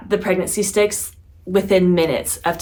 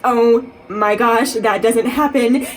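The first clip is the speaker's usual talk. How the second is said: amazed; 3 semitones higher, 4 dB louder, slower than usual. Real, not acted. Positive test, crying.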